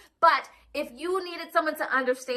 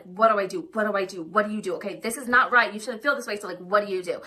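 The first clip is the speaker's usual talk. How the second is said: anxious inner voice; 4 semitones lower than usual. Retold or imitated. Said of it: "a voice that's kinda like".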